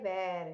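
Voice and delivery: वेर said like "where"; mistaken pronunciation. Shown as a demonstration. Teacher showing how people misread "were", mistaken pronunciation. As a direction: say वेर with an open "air" vowel. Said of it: "दोनों को pronounce कैसे करते हैं".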